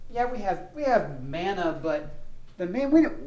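mock-whine about the missing food; whining complaint. Israelites complaining to Moses about food, whiny. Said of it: "They start whining and complaining".

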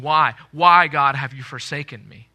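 a loud pleading why that drops off at the end; anguished cry. Retold or imitated. Believers in their deathbed scenes crying out to God. Quoting a desperate question to God.

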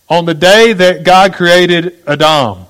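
"Adam" as ah-DAHM, stress on the second syllable; slow, emphatic reading, landing on "Adam" as ah-DAHM; Hebrew name in English. Shown as a demonstration. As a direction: proclaim it slowly, with "Adam" said ah-DAHM. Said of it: "because in the Hebrew, this is what you saw".

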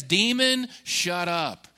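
rising command on Demon, then clipped; a preacher voicing Jesus rebuking. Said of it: "He says".

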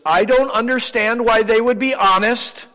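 as if honesty makes no sense; baffled disbelief. Retold or imitated.

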